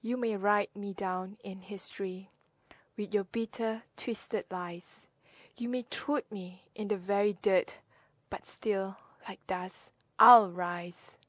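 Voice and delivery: measured poetry reading with pauses between phrases; poem recitation. Acted. Reading Still I Rise for listeners, measured poem recitation. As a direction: recite it line by line, landing on the closing words.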